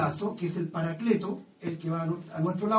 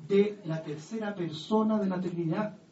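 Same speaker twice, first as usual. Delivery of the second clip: ordinary delivery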